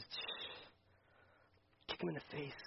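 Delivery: soft, low hush then a playful command; hushed Jesus. Retold or imitated. Jesus telling the believer to silence the old self, hushed. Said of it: "And Jesus says".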